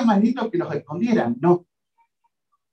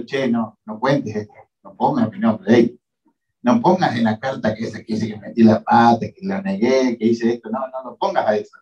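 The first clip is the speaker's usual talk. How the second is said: low, hushed plea not to be named; a lower voice begging the writer to leave it out; pleading Peter; 7 semitones lower than usual. Retold or imitated. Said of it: "Entonces podría haber dicho".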